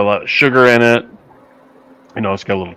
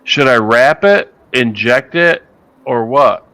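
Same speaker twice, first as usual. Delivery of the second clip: buddy's worried questions, louder and higher, slow; imitating buddy; 4 semitones higher, 4 dB louder, slower than usual. Host retelling his Pittsburgh buddy's texts, mock worried. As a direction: act out the anxious buddy. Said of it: "he goes".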